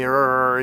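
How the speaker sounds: a short mock growl of frustration; mild retold angry growl; imitated angry growl. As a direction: growl it like an angry man grumbling. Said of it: "saying stuff to me".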